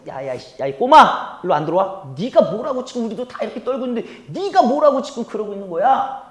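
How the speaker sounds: mock big-brother telling-off, rising in pitch; acted scolding. Eldest brother rebuking young David, mildly acted scolding. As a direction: scold the kid with a touch of anger.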